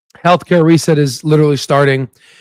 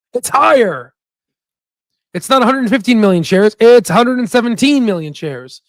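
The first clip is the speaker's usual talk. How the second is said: excited correction; 5 semitones higher than usual. Real, not acted. Crows over rising institutional share count.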